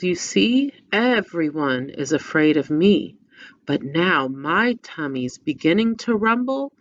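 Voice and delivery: lively storybook read-aloud; reading to children. Acted. Teacher reading the picture book aloud to children.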